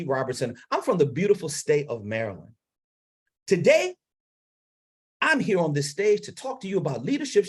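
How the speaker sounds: strong keynote opening, rising on Today; confident introduction. Shown as a demonstration. Coach demonstrating an opening for speakers. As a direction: present it with confidence, chin up. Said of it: "Introduction is very important".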